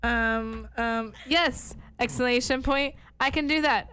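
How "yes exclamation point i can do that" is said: perky email read-aloud. Acted. Reading own exclamation-filled email aloud.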